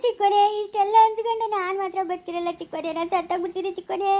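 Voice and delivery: melodramatic tearful wail; crying. Acted. Insulted wife threatens she will die, theatrical crying. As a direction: wail it out in long plaintive phrases. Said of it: "ಅಳ್ಬೇಡ, ಸುಮ್ನಿರು".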